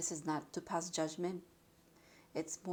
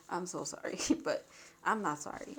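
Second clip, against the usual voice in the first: laughing apology. Real, not acted. Reader teasing the viewer about a messy reading, laughing. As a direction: laugh it off playfully.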